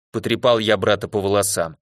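ordinary delivery, nothing marked

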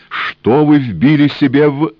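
high, loud urgent cry; shout. A narrator's reading. Engineer shouts to the woman with the gun. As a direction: shout to stop her dying.

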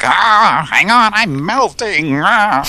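high, slow, wailing cartoon villain; melting villain. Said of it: "he's like".

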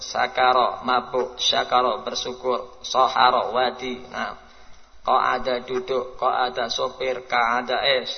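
"Khalaqa", "ghalaqa", "sakara", "syakara" read slowly, sounds kept apart; slow word list. Shown as a demonstration. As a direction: slowly recite word pairs. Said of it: "Beda antara halaqah dengan khalaqah". (membaca kosakata pelan dan jelas)

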